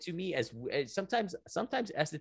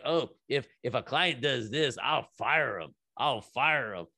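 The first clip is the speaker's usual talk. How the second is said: mocking huffy esthetician. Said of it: "laughing about ... pet peeves".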